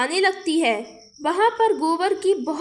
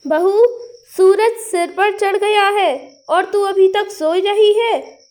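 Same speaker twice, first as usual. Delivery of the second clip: scolding mother-in-law; 2 semitones higher, 6 dB louder than usual. Acted. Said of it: "उसकी सास को बहुत ही गुस्सा आता है".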